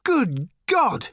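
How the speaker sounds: high, loud astonished cry; startled yell from the next room; shouted exclamation. A narrator's reading. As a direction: shout it in disbelief. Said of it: "shouted Arthur".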